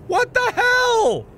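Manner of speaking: high, loud, slow disbelief; shouted what the hell. Real, not acted. Streamer yells at strange sight, loud. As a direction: yell it out in shock. Repeated exclamation, last shouted.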